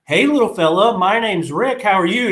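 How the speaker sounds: put-on peppy counselor voice; camp attendant. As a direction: greet a sulky kid like an upbeat counselor. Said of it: "He's like".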